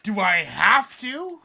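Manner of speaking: loud, slow, put-upon whine; reluctant groan. Retold or imitated. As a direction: drag it out like a chore you dread. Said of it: "I'd be like".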